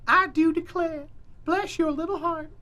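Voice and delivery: high, slow Southern belle drawl; hammed-up Southern lady blessing your heart; Southern belle accent. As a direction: lay on the Southern accent thick. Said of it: "she has a southern accent just like that".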